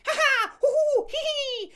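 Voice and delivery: high playground whoops; playful kids laughing. Retold or imitated. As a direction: laugh like excited children at recess. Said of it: "a bunch of kids".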